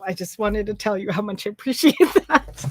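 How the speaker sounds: real choked-up thanks, breaking at the end; grateful, on the verge of tears; tearful gratitude. Real, not acted. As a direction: thank them while about to cry. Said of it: "I'm gonna cry now".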